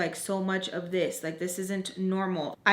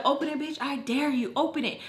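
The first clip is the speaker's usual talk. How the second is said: higher, goading mock challenge; retold taunting dare; 4 semitones higher than usual. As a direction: dare them through a door. Retold dare through the door.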